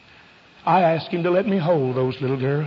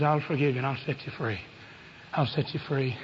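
soft, low promise of pardon; quiet voice of a forgiving God; hushed forgiveness; 4 semitones lower, 10 dB quieter than usual. Acted. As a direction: drop right down and promise it gently. Voices God's forgiveness after climax.

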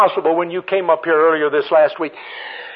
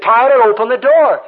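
put-on raised, higher call to a child; acted exasperated command; 7 semitones higher, 5 dB louder than usual. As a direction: call sharply through a locked car door. Relatives calling to locked-in child.

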